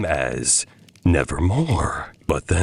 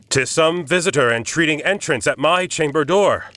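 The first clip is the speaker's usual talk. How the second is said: anxious repeating; 9 semitones higher than usual. A narrator's reading. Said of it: "I stood repeating".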